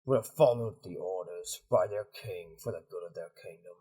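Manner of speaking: low, subdued commander's rebuke; disappointed commander. Acted. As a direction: coldly question your right hand's loyalty.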